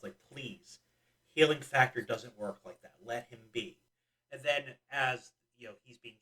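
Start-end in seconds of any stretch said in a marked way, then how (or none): 0.3-3.8 mildly somber pleading, falling away at the end. Retold or imitated. Podcast host acting out a more serious movie scene, mildly somber. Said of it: "him kind of somberly".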